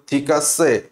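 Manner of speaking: low Russian-accented ঠিক আছে. Shown as a demonstration. Teacher imitating a Russian saying okay, Russian accent. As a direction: pronounce ঠিক আছে heavily, as a Russian would. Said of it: "তুমি যদি একজন রাশিয়ানকে বলো".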